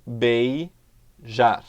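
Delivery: "beijar." drawn out, nucleus marked; syllable split. Shown as a demonstration. Teacher pointing out the syllable nucleus. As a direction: stretch "beijar." showing the vowel core. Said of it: "O meu núcleo tá aqui".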